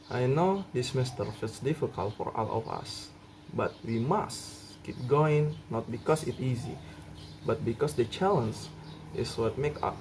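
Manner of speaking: a mild, reassuring pep talk, slowing on we must keep going; gently rally your classmates; encouraging speech. Shown as a demonstration. Student teacher encouraging classmates through a hard semester, mildly reassuring. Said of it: "I will demonstrate a responsive statement".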